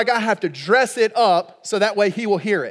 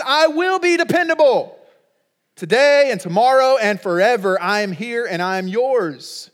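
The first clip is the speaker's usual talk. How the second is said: God's promise called out high and loud; God's voice booming out a promise; proclaiming loudly; 4 semitones higher, 4 dB louder than usual. Acted. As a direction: proclaim it as God himself.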